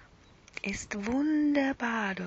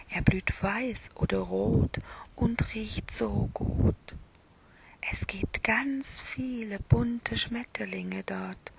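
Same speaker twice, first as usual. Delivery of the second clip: whispered bedtime story. A narrator's reading. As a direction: whisper it like lulling a child to sleep.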